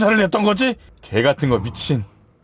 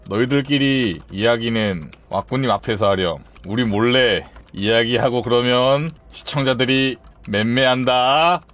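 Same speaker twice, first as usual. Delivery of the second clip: slow, lower mock scolding; teacherly admonishing; 5 semitones lower than usual. Streamer warning chatters like kindergartners, slow teacherly scolding. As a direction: spell it out slowly for small children.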